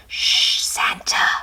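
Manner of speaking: breathy unvoiced hush; whisper. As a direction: hush him under the breath. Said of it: "whispered the reindeer".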